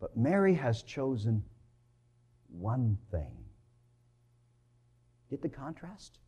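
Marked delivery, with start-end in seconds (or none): 0.0-3.5 gentle slow rebuke. Acted. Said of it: "He said".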